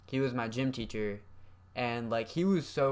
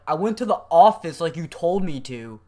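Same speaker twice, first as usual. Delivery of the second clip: indignant; 7 semitones higher, 11 dB louder than usual. Retold or imitated. Kid defending himself loudly.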